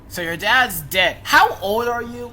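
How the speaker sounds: loud, high disbelief; shocked outburst. Real, not acted. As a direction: blurt it out in shock. Reacting loudly to story.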